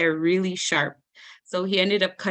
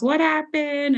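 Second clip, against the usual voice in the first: screaming granny; 8 semitones higher, 4 dB louder, slower than usual. Retold or imitated. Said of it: "screaming at us".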